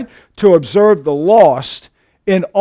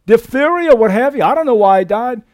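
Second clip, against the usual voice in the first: lightly voiced puzzled coroner, raised pitch; a hint of a baffled coroner at the autopsy; 5 semitones higher, 4 dB louder than usual. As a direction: play a baffled coroner listing causes. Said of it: "the coroner's saying".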